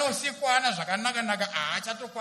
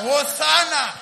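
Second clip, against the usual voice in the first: shouted Hosana; much slower than usual. Shown as a demonstration. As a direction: call Hosana out fully.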